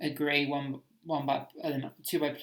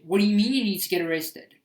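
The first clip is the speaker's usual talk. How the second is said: worried butler; 4 semitones higher, 4 dB louder than usual. Retold or imitated. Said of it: "when Alfred should have said".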